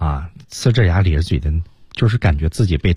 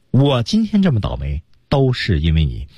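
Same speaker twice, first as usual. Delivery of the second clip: mildly put-on blaming complaint; aggrieved complaint. Teacher voices the stranded Alex blaming someone, aggrieved complaint. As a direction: act out a small grievance, pinning it on the listener. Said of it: "就颇有这种感觉啊".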